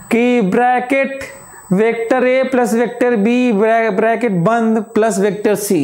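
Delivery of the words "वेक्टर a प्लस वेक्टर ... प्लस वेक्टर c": reading the bracket words out literally; brackets read aloud. Shown as a demonstration. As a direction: spell out "bracket बंद" in an even run. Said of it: "ऐसे थोड़े पढ़ा जाएगा".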